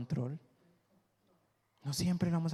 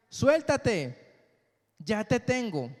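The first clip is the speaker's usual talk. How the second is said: gentle divine voice; 5 semitones higher, 3 dB louder, slower than usual. Acted. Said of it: "esa voz le decía".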